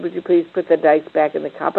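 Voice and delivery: patient, polite asking, lightly voiced; polite request. Mother asking her son nicely at the board game, polite. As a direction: ask the son nicely, holding it together. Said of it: "she said it nicely".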